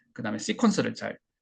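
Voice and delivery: ordinary talk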